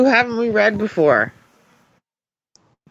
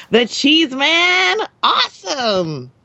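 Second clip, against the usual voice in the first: slow excited read; 6 semitones higher, much slower than usual. Acted. Reads excited line from letter.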